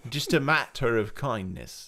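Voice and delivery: lightly put-on Londoner English; London accent. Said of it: "more London".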